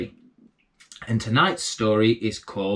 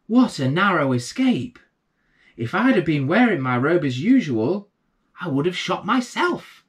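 higher, relieved exclamation; exclaiming; 6 semitones higher than usual. A narrator's reading. Coger realising he shot his own robe, exclaiming higher. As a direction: blurt it out, amazed at the lucky escape. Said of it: "and exclaimed".

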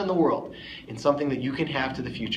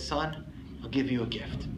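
put-on softer, steady reassurance after the boy's plea; gentle father; 6 dB quieter than usual. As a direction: comfort the child quietly, as a father would. Father consoles his crying son in story.

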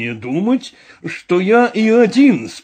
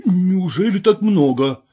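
a touch of glad surprise, lightly lifted; asks, pleasantly surprised at the price; gladly surprised; 5 semitones higher than usual. Acted. Vorobyaninov asks about the treasure's worth, mildly delighted. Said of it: "обрадованно спросил Воробьянинов".

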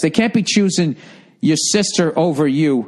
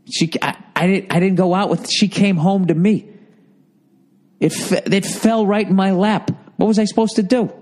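mock innocent plea; 6 semitones higher than usual. Pretend pleading innocence to dad.

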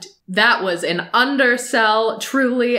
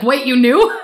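shocked; 4 semitones higher, 6 dB louder than usual. Retold or imitated. Shocked she knew.

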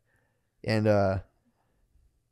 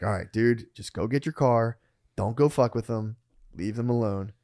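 lower, slightly softer steadying tone; retold calming self-talk; 3 semitones lower, 5 dB quieter than usual. Storyteller telling himself to walk away, low and calm. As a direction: talk yourself down, evenly. Talks himself down after fight.

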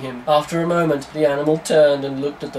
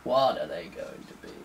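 mock interrogation. Reading John interrogating, slow.

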